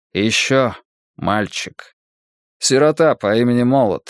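чуть выше, медленно и скорбно; перечисляет погибших с тяжестью; голос монаха. Acted. Монах сообщает о гибели людей. (скорбный голос монаха)

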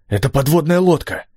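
high, excited exclamation; amazed. A narrator's reading. Steve identifies the submarine for companions, amazed.

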